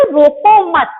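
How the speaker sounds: रोको मत as one firm unit; pause after मत. Shown as a demonstration. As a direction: say रोको मत, then halt. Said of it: "मत के बाद अल्प विराम".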